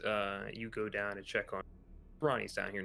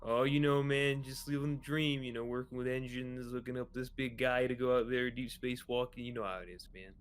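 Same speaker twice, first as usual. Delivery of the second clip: lightly voiced hearty engineer Ronnie; breezy, slightly raised greeting to a mate; easygoing crewmate; 3 semitones higher, 10 dB louder than usual. Ronnie greets Fitz while suiting up Kraus, lightly voiced easygoing crewmate. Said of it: "Ronnie looks over".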